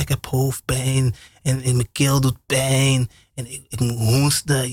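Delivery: slow, drawn-out sick complaining; sorry for himself. Acted. A sick man slowly lists his aches to a friend. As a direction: play it up like a sorry patient.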